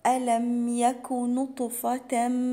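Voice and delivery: slow, measured recitation of أولى لك فأولى; Quran recitation. Shown as a demonstration. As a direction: recite each letter with its full length. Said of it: "حرف الطاء مقلقل". (تلاوة مرتلة ببطء)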